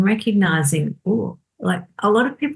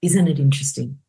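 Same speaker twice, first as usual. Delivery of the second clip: curious gentle line. Shown as a demonstration. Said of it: "my little standard line is".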